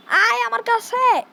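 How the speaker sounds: slow, loud, high menacing call; menacing lure. Acted. Gamer luring the trapped baby, slow menacing call. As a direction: draw the baby in like a villain.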